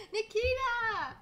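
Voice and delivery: high, loud, drawn-out name call; excited yell. Real, not acted. Streamer too excited by the game, stretched loud yell. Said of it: "Warning headphones users".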